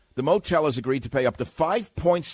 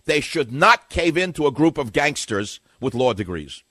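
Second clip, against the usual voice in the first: loud insistence; 5 dB louder than usual. Real, not acted. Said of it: "Did you hear what I just said?".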